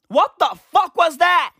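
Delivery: acted shocked question; baffled disbelief. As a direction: exclaim it like a stunned old-timer looking back. Imagined octogenarians looking back, first take.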